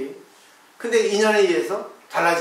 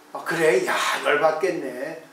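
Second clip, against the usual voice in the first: sympathetic listening; 3 semitones lower, slower than usual. Retold or imitated. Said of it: "적극적으로 상대가 말하는 거에 긍정합니다".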